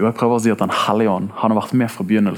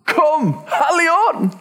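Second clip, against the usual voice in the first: long, drawn-out cry, pitched way up; shouted invocation; much slower than usual. Retold or imitated. Hippie preacher calling into a room of youngsters, shouting. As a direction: imitate a preacher crying out slowly, very high. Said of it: "roper han ut".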